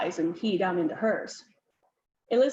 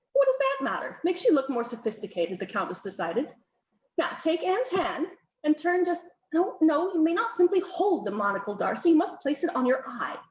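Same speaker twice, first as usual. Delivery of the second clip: higher, insistent countess ordering poses; bossy countess; 5 semitones higher than usual. Acted. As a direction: countess fussing over the portrait, lightly voiced.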